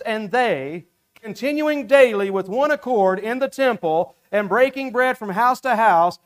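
measured, solemn Bible reading; steady, formal scripture reading. Acted. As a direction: read the verse out with reverence. Reads scripture aloud.

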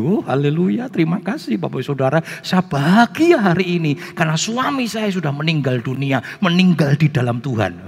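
hammed-up hallelujah delight; mock joyful testimony. Widow announces husband's death to congregation, absurdly joyful. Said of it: "ada pengharapan guyang-guyu".

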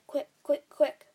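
frantic rapid-fire call; urgent cry. A narrator's reading. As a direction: hurry them along loudly. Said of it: "he cried".

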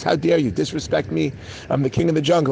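mildly hammed-up offended king of beasts; indignant lion. Offended lion scolds the donkey.

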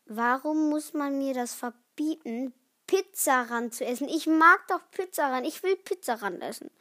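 put-on pleading kid's complaint, swelling midway; mock protest. Kid begging to keep eating pizza, playfully protesting. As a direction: whine and plead, peaking before the end.

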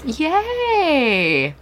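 high drawn-out cheer; excited cheer. Real, not acted. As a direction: cheer him on. Cheering after statement.

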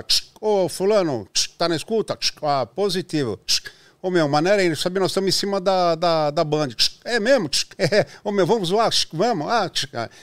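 lightly voiced radio chatter with clicks; over walkie talkie. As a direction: play a guy on a radio with static clicks. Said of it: "gravou uma conversa de rádio, de H T".

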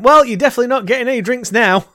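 retold angry retort. Retold snapping back at customer.

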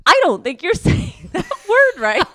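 husband correcting her. Retold or imitated. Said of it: "and he's like".

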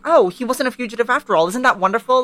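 hammed-up sweet mom voice; mock sweet Sally. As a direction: play it sugary to smooth things over. Sally smoothing things over.

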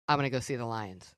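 put-on low, soft whiny little girl; a hint of a sulky little girl; small child voice. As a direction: play the preschooler who now wants the lions. Niece voiced in story.

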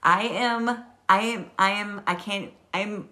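nervous excited stutter; tripping over the words. Real, not acted. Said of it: "stuttering how excited I am".

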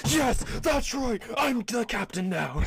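slow, high, loud triumphant crow; gloating gnome. Retold or imitated. Gnome boasting to the bar after winning, slow high triumphant gloat.

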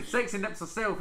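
giggling through the name; laughing. Real, not acted. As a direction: laugh while saying it. Laughing host intro.

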